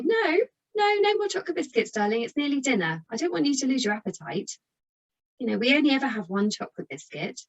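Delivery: gently but firmly refuse, pitch up high; sweetly firm parent. Shown as a demonstration. Parent refusing a second biscuit, high and sing-song.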